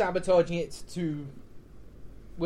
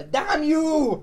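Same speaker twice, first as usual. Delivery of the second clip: mock curse; 9 semitones higher, 6 dB louder than usual. Cursing the mythos result.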